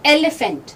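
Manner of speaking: "एलिफेंट" said EH-le-fent; short eh opening on "एलिफेंट", le in the middle; carefully modelled "एलिफेंट" with short e vowels; correct elephant. Shown as a demonstration. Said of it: "ये एलिफेंट होता है".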